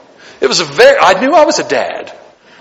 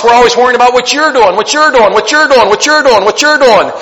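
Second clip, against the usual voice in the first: louder, hammering you're each time; preacher mocking the nosy, raised and insistent; repeated mocking emphasis; 5 semitones higher, 3 dB louder than usual. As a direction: drum the phrase like a nag. Mocking busybody repetition.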